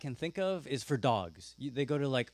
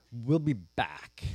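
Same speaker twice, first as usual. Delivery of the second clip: very slow, low and hesitant "we'll be back"; halting promise; 4 semitones lower, much slower than usual. Acted. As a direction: stretch out "we'll be back" uncertainly. Abraham's evasive promise to servants.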